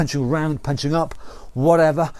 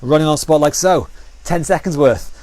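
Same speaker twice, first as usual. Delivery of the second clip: raised coach's voice over the workout; calling out cues; 3 dB louder than usual. Real, not acted. Fitness coach rallying the class before the round, loud and energetic. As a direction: call it out to the class, loud and upbeat.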